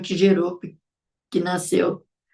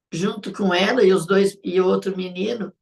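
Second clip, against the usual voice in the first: ordinary talk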